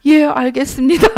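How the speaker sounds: grudging yes, rising; hiding disappointment. Retold or imitated. Preacher voicing her younger self, a grudging yes. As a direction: swallow the letdown and say yes. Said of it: "겉으로 표현 못하고".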